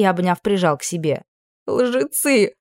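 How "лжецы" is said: ordinary delivery, nothing marked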